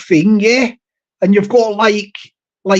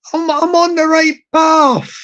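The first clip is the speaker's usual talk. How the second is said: higher-pitched garden call; mock shout; 6 semitones higher than usual. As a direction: call it out higher, without real volume. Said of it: "back garden and shout".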